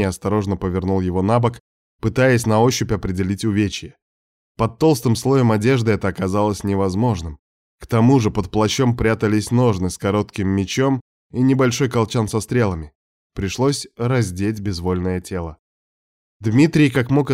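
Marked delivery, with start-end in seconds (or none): none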